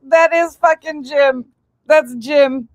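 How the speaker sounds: squealing that's Jim; excited shriek. Real, not acted. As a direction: shriek as you recognise the singer. Recognising the singer, delighted.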